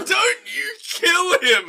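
very high, slow mock wail; hammed-up desperate cry. Man begs the mob to spare the boy, hammed-up wail. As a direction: stretch it into an over-the-top shout. Exaggerated echo of man in crowd.

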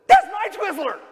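put-on high, loud whiny kid shriek; kid's outraged yell. A child yelling at a sibling over candy, shrill outrage.

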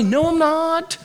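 mock Peter talking back, quickening; hammed-up know-it-all rebuttal; cocky retort. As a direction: Peter mockingly arguing with Jesus, cocky. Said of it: "saying that his words are greater".

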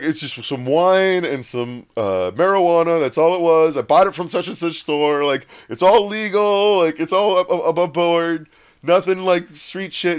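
acted-out nervous self-defence; defensive explaining. Defending himself to paramedics, acted.

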